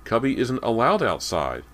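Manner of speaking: put-on high, loud child's protest; demanding. A narrator's reading. Boy hearing the dog went outside, demanding. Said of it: "James demanded".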